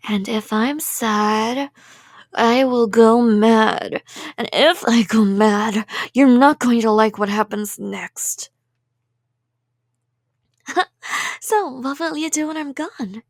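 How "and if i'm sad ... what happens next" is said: menacing threat. Acted. Yandere threatening captive.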